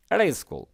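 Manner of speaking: 'At a school' as one word with a flapped d; linked native reading. Shown as a demonstration. Teacher explaining why natives are hard to follow, 'At a school' linked. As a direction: blend 'At a school' like 'era-school'. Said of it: "এটা হচ্ছে নেটিভদের কথা বলার ধরন".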